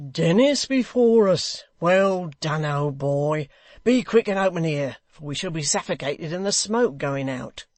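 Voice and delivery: loud, eager shout to his mate; rough rioter Hugh. Acted. Hugh calling to Dennis through the smoke, loud.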